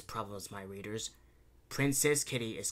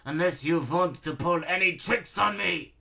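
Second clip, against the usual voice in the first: higher villain voice, sneering; 6 semitones higher, 4 dB louder than usual. A narrator's reading. Baron daring Princess Kitty to try tricks, sneering. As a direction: taunt your challenger with a sneer. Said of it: "he sneered".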